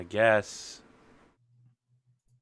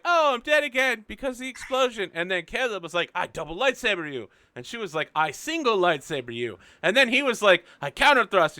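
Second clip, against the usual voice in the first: animated retelling with punched, higher bursts on exclamations; hammed-up previously recap; 8 semitones higher, 5 dB louder than usual. Game master retelling a lightsaber duel to players, hammed-up. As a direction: act out both duelists in quick mock quotes.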